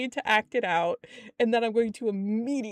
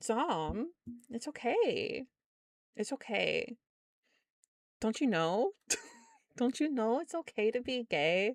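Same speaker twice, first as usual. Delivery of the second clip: slow, sing-song, condescending talking-down tone; 7 dB quieter than usual. Reassuring another person that it is okay to be gay: condescending tone. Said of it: "I sounded so fucking condescending".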